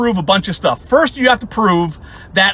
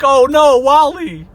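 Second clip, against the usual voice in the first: mock concern; 5 semitones higher, 4 dB louder, slower than usual. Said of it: "three fucking dudes on there who are like".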